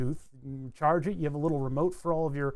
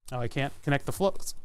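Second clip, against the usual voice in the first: hiccuping. Real, not acted. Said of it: "Excuse me, I'm hiccuping".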